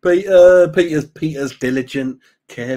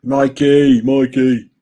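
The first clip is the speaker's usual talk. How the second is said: calling out; 7 dB louder, much slower than usual. Real, not acted. Calling out to a chat member.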